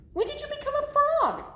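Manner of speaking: high, quick, amazed voice; astonished question. Acted. Gerald asking Piggy about turning frog, astonished. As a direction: blurt it out high and fast.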